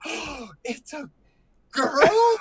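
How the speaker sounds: rising surprised exclamation; shocked realisation. Retold or imitated. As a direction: discover the DJ is a woman. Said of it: "I'm like, gasps".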